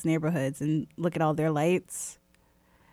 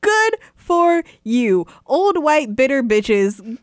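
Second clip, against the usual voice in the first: slow, loud, high-pitched mock praise; scornful sarcasm; 6 semitones higher, 6 dB louder, much slower than usual. Store worker retelling her clash with a holiday-hating customer, scornful. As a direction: stretch each word out with heavy sarcasm. Retort to complaining customer, retold.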